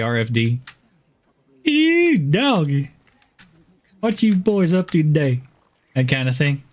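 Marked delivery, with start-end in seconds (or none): 1.6-5.4 Gomer Pyle voice. Retold or imitated. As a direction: do a goofy Southern yokel from Mayberry. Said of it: "I can go full Gomer".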